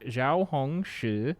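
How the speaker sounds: slow, made-up Chinese tones with silly swoops; non-Chinese speaker inventing tones on "Zhao Hong Shi"; invented tones. Retold or imitated. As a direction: sound out each syllable with a guessed tone. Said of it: "like, invent tones".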